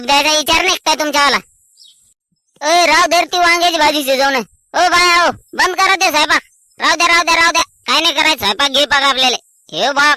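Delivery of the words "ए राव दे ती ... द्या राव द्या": higher-pitched, insistent order; calling off work. Acted. Cook orders the helpers to stop cooking, calling out. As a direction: call it out to halt everyone.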